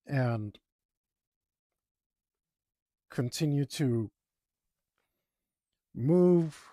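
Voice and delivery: halting stutter. Real, not acted. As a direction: stumble and stutter through it. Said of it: "I'm stuttering so bad".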